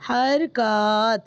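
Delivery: حرکات spelled out slowly for students to copy; حرکات drawn out as a slow teaching example; slow model word. Shown as a demonstration. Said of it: "کیا کہلاتے ہیں؟".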